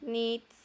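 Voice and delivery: "needs" holding the "ee" vowel; long I sound. Shown as a demonstration. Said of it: "sonido largo de I". ("needs" alargando la i)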